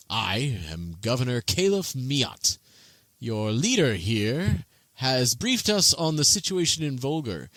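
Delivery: lightly voiced welcoming governor; courteous governor. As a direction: greet the guests graciously.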